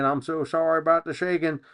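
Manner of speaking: speaking while being shaken; on a bumpy road. Real, not acted. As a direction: voice jostled by shaking. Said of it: "We got some shaking".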